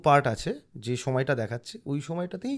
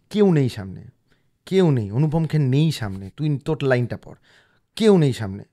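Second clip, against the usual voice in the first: pushing himself on, louder and louder; self pep talk; 6 dB louder than usual. Retold or imitated. To himself before the scene with Anupam Kher, a loud pep talk. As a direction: psych yourself up over the music, loud and urgent. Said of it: "এবং ভাবছি".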